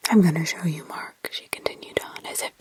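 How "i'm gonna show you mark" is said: put-on demonic child. Possessed girl accusing Mark, lower demonic whisper. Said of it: "it was demonic in others".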